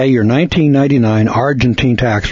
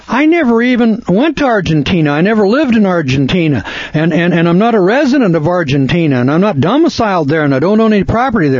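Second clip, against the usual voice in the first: higher-pitched, insistent mock protest; mock protesting defendant; 5 semitones higher than usual. Defendant comes back at the court after objections, acted insistent protest. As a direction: protest your case, piling up denials.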